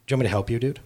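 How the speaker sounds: soft, low offer of help; retold tender dad, voice dropped; gentle offer. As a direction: quietly check in with a struggling kid.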